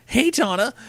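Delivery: put-on high-pitched boyfriend's greeting; cheerful Crash, high voice. Boyfriend greeting his girlfriend, high-pitched character voice. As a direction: call hello in a high character voice.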